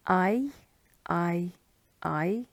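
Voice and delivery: "I" sounded alone as in high; combo vowel. Shown as a demonstration. Teacher running through combo vowels, "I" as in high. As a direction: repeat "I" separately, rhyming with high. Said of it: "I as in high".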